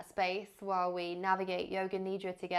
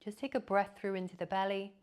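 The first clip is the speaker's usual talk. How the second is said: guided meditation. Real, not acted. Yoga teacher leading listeners into body awareness, calm guided meditation. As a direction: guide them gently into rest, leaving long silences.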